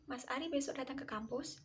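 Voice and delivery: "Mas Ari besok datang ke kampus" asked as a question, pitch rising at the end; question intonation. Shown as a demonstration. Lecturer demonstrating an interrogative to students, rising question tune. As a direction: ask it, lifting the last word "kampus".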